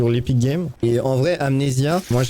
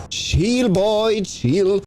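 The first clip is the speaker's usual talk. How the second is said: mock soothing; 9 semitones higher, much slower than usual. Real, not acted. Se calme lui-même, haut.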